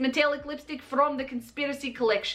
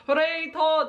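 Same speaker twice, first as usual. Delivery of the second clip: bad Todd impression; 3 semitones higher, slower than usual. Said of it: "I'm not good at impersonations".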